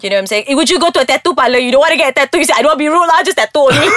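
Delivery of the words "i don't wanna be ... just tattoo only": mock a too-polite customer through laughter; amused, playful imitation breaking into laughter; laughing mock politeness.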